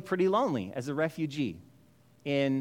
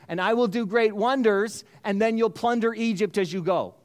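voice of God; 5 semitones higher, 4 dB louder than usual. Acted. God speaks on, sending Moses.

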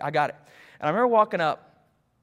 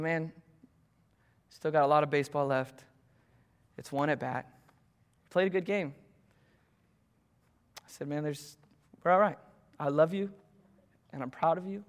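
tender dad; 3 semitones lower than usual. Retold or imitated. Dad comforting son after strikeout.

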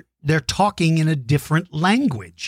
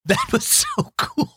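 excited. Real, not acted. Delighted reaction to kids' song.

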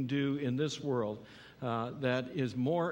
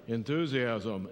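slow, lower and flat, the wrong way; dull, unenthusiastic; 5 semitones lower, slower than usual. Shown as a demonstration. Pastor showing the congregation the wrong way, dull and listless. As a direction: say it like you couldn't care less. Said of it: "No, work with enthusiasm".

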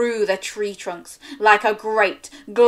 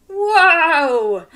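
impressed; 8 semitones higher, 7 dB louder than usual. Real, not acted. Praising child's roar.

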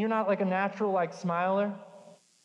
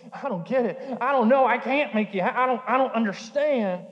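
frustrated confusion; 3 semitones higher, 6 dB louder than usual. Retold or imitated. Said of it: "the other person's like".

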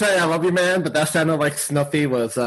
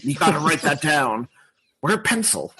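lightly gruff greedy monster voice; Cookie Monster impression; 2 semitones higher than usual. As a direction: keep listing cookies, hungry and giddy. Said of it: "your best Cookie Monster".

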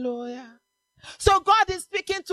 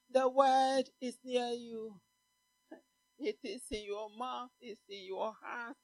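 hushed preaching; 4 semitones lower, 7 dB quieter than usual. Acted. Preacher softly telling the church the word is near, hushed. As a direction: draw them in quietly.

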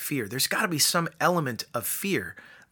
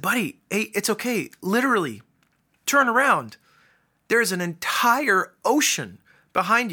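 reassuring dad; 5 semitones higher than usual. Retold or imitated. Dad soothing upset son.

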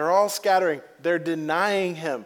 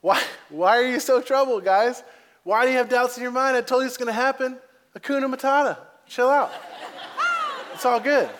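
lightly voiced Jesus, amused and relaxed, a little higher and quicker; grinning reassurance; 6 semitones higher than usual. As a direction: tease them gently with a big grin, chill out. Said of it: "the biggest grin when he said that".

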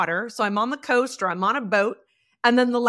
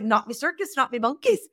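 imitated Northern Irish lilt, lifting at each phrase end; Irish accent. Imitating gentleman in Northern Ireland, Irish accent. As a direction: quote it in a light Irish accent. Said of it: "roundtable of C E Os in Ireland".

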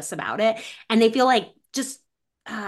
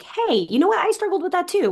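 mock parent reflection; 9 semitones higher than usual. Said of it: "a respectful reflection where it's like".

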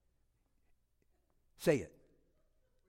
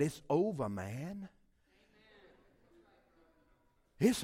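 voice of God; 8 semitones higher, 11 dB louder than usual. Retold or imitated. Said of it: "and God said".

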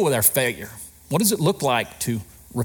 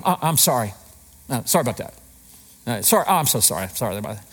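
glib, throwaway mock apology; superficial apology; 4 semitones lower, much faster than usual. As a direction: toss off a token apology without meaning it. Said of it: "superficial response".

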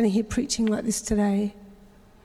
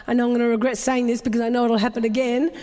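laughing; faster than usual. Real, not acted. Rueful aside about regretting words.

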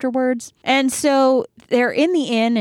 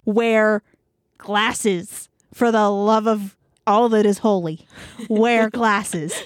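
slow, pointed pauses round "wear" and "glasses"; emphatic plea; slower than usual. Retold or imitated. Old lady urging groom to get glasses, emphatic. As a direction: hammer out "wear" and "glasses" word by word.

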